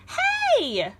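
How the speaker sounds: very high, loud startled shout; shouted hey. Acted. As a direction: yell to catch him. Girl shouts at the beast.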